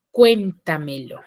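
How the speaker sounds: cuéntamelo, slow, with CUÉN punched; stress on first syllable. Shown as a demonstration. Teacher's example of a sobresdrújula, cuéntamelo stressed on its first syllable. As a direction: lean on CUÉN, let the rest of cuéntamelo fall away. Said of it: "la mayor fuerza de voz en la anterior a la antepenúltima".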